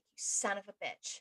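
a soft curse through laughter; laughing curse. Retold or imitated. She admits her dad was right, laughing curse. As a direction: laugh it out, half-beaten.

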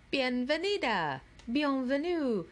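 booming ceiling announcer greeting in many languages; booming welcome. A narrator's reading. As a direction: boom it out from the ceiling. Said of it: "boomed a voice from the ceiling speakers".

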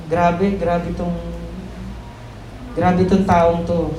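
slow, drawn-out awe; awed amazement. Retold or imitated. Disciples marvel at Jesus calming the storm, slow and awed. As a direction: marvel at him, word by word. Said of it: "sabi nila".

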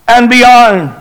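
imitated call back. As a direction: call back as if across open water. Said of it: "hear Christopher call back".

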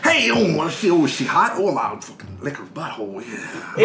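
nosy jailbird calling across the cells; mock prisoner hollering about Charlie in the back room; mock inmate. Voicing inmates.

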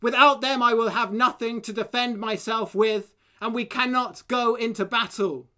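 bellowing king. Acted. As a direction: boom it to the army. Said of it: "The king bellowed".

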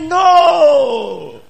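loud, high shouted no; shouted flat refusal; firm refusal shout. Acted. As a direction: push her away with it. Joseph refusing the woman.

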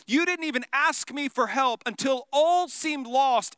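frustrated teacher questioning disciples. Acted. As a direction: scold them, building then easing. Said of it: "hear this frustration in his voice".

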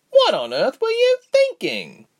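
high, loud furious shout. A narrator's reading. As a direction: yell it out in fury. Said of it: "Reshma shouted".

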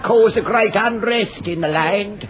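mock sermon. Mock preacher sermon sketch.

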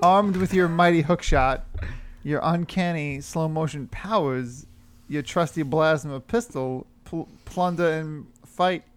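Irish-lilted pirate read; Irish pirate accent. Acted. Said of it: "I always go Irish".

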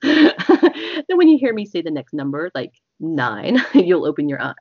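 giggling through the words; can't hold back a laugh. Real, not acted.

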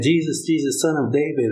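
high-pitched mock scream, not loud; retold screaming. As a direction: imitate a crowd crying out, held back in volume. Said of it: "they're screaming loud in the crowd".

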